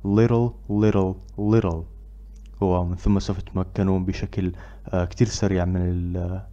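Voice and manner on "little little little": "Little" three times quickly, run together; rapid "little little little"; fast repetition. Shown as a demonstration. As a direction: rattle it off. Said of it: "بشكل سريع".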